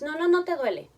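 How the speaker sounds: un no firme y más fuerte; niégale el dolor con firmeza; negación tajante. Retold or imitated. Padre niega el dolor. (niega el dolor al niño, firme y fuerte)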